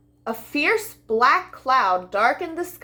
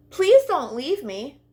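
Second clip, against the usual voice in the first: implored; 4 semitones higher, slower than usual. Acted. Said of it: "the lamb implored".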